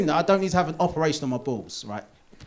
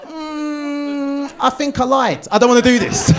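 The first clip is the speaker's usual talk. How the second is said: high, drawn-out whimper building louder; mock whimpering reluctance; 12 semitones higher, 7 dB louder, slower than usual. Husband backing out of his promise before the procedure, whimpering. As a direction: back out like a hammed-up frightened child.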